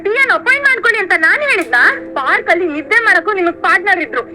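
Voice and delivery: indignant questions with swinging pitch; exasperated, emphatic comeback; angry retort. Acted. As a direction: hit back at an accusing husband. Wife hits back in quarrel.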